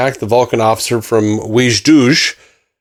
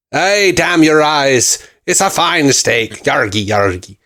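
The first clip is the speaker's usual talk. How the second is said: put-on pirate accent; slower than usual. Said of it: "This is directly a pirate accent".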